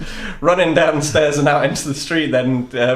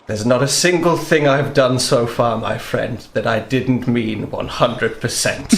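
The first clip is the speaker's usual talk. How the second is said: earnest and low; 3 semitones lower than usual. Acted. Prance earnest to friend.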